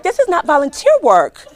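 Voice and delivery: laughing disbelief; retelling her own reaction with a laugh. Retold or imitated. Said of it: "I'm like".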